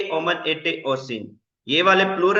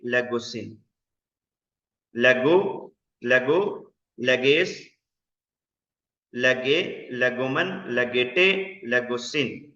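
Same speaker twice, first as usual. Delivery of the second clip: lower, list-like chant of verb forms; conjugation drill; 4 semitones lower, slower than usual. Shown as a demonstration. Teacher chanting Greek verb forms for students to memorise. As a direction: rattle off each form with a lift at the end. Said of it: "इनको याद करना है".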